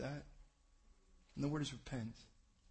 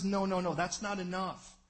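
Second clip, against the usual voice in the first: firm rebuke; 4 semitones higher, 9 dB louder than usual. Retold or imitated. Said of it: "God says".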